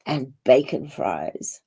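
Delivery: talking while crunching chips. Real, not acted. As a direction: speak through crunchy snacks. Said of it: "Can you hear me crunching?".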